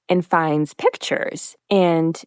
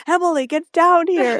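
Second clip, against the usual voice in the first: calling out; 10 semitones higher than usual. Retold or imitated. Richard calling from background.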